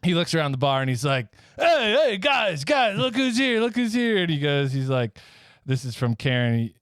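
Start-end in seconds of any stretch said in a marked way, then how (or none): 1.6-4.2 calling out. Acted. Rudolph calling to the bar.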